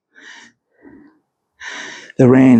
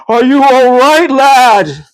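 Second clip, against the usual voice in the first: John's concern; 8 semitones higher, 5 dB louder, slower than usual. A narrator's reading. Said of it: "John managed to say".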